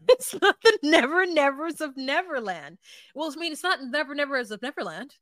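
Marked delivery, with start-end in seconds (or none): 0.1-2.8 laughing repeat. Retold or imitated. Repeating her line, laughing.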